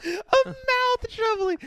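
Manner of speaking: high, slow, words squeezed out through laughter; laughing. Real, not acted. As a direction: crack up while saying it.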